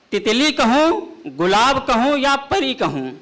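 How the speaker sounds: measured, declaiming poetic delivery; ghazal recitation. Acted. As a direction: recite the couplet grandly. Poet recites qita.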